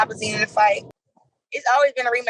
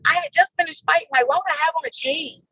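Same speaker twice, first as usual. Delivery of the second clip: baffled reaction; 4 semitones higher than usual. Retold or imitated. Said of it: "I'm like, when she said it at the moment".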